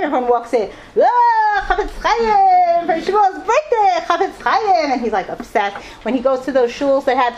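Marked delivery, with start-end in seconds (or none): 1.0-4.9 high, loud, drawn-out exclamations; hammed-up high cheering; mock excitement. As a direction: imitate guests crying out in amazement. Acted exclamations of people walking in.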